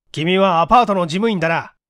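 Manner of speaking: a detective scolding a suspect. Acted. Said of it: "叱るように言った".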